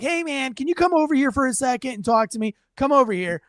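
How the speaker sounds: lightly voiced friendly cop, casual and inviting; a hint of a laid-back cop asking nicely. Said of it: "And you're like".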